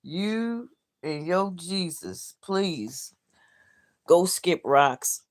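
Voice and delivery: slow, sugary fake politeness; mock polite. Real, not acted. Streamer brushing off a religious viewer, mock polite. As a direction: sweetly tell them off. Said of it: "in the most polite way possible".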